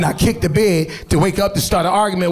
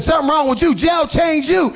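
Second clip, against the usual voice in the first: mock retort; 7 semitones higher than usual. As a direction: drag out jail changed you. Retort, high, slow.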